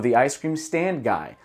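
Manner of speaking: slow the ice cream stand guy; natural English phrase. Shown as a demonstration. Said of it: "a gente combina isso".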